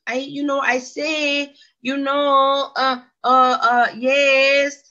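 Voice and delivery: imitating daughter's non-answers; mocking mumbling teen. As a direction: trail off into meaningless blips like a shrugging teenager. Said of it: "But she just kind of like".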